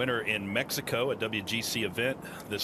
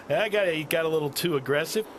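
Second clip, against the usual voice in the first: surprised; 7 semitones higher, 3 dB louder than usual. Real, not acted. Reacting to wild shot.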